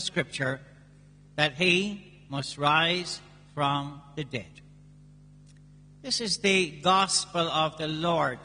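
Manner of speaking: measured solemn Gospel reading; scripture reading. Acted. Priest reads the Gospel aloud.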